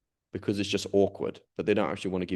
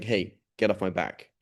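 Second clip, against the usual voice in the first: mild mock snap, a little slow; rude brush-off. Shown as a demonstration. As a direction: brush him off rudely, half-acted. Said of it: "the way I talk to him is not".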